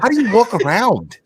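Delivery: mock-serious scolding; imitating an upset rant. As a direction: act out a friend's earnest outrage. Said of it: "dead serious when he's that".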